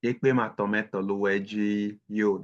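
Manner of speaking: Ekpe matometo luwejiyo said slowly and evenly; slow correction. Shown as a demonstration. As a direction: model the sentence slowly after the student. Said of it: "Can you do us the honors?".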